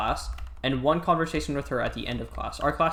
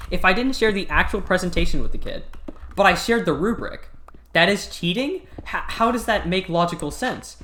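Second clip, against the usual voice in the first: louder, mildly acted indignant protest; indignant retort; 4 semitones higher, 3 dB louder than usual. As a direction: argue back at an absurd accusation. Retold argument over cheating accusation.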